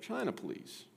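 high, soft, dainty reply; polite British gentleman. Acted. Asquith choosing his tea for the butler, polite gentleman. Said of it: "And he said".

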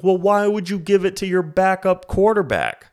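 high, loud, sneering mock complaint; mocking whiny critic. Podcaster mocks Ravens critics with a high, loud, whiny voice. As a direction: whine it like a clueless know-it-all. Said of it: "do you think the Ravens are gonna be like".

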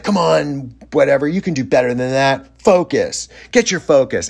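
mock angry coaching. Psychic scolding players after the inning, imitated angry pep talk. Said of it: "yelled and screamed at everybody".

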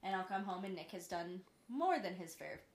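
talking through small burps; swallowing burps between words; burping after fizzy drink. Real, not acted. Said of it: "Sorry, I just can't stop burping".

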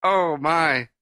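drawn-out words through laughter; laughing. Real, not acted. Host laughing at the retold quote.

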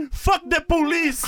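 laughing through a joke slogan. Real, not acted.

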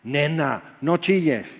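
mock-scold a crybaby; a hint of a gruff father; teasing rebuke. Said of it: "Me pudo haber dicho".

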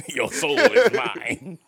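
slow, high, sinister sorcerer hiss; cold hissing layered whisper. Pretend. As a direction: stretch each word like a soul-stealing villain. Quoting Shang Tsung's catchphrase.

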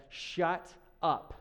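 a hint of a grumpy, just-woken rebuke; groggy, grumpy. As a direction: curtly tell the storm off, mildly annoyed. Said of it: "kinda groggy and a little grumpy".

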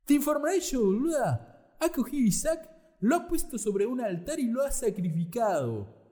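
high, loud Argentine Satan; Argentine accent. Acted. Satan taunting Sara in an Argentine accent. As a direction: play Satan as a brash Argentine. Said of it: "con una voz de argentino".

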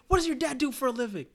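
high, loud teasing coach voice; mock coach taunt. Coach mocking Darnell's over-dribbling, high loud teasing. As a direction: needle the kid with a setup question. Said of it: "He's like".

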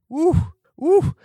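ooh at the big number; surprised ooh. Real, not acted. Reacting to budget.

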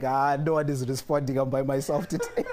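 loud retold lament breaking into laughter; laughing mock despair. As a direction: wail it jokingly, laughing at the end. Comic retelling of panicked cry, laughing.

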